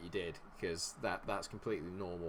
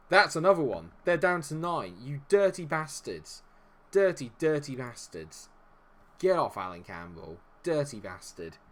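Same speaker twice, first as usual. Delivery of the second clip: loud, raised-pitch shouting; real heated yelling at the match; outraged gloating; 5 semitones higher, 9 dB louder than usual. Real, not acted. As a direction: shout abuse at the other team, drawing out the insults. Raging at opponents after second red card.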